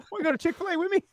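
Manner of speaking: very high, sing-song creepy offer; creepy lure. Pretend. Joking about luring the kid, creepy sweet. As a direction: lure him in with a fake-sweet voice. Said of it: "joke creepy offer".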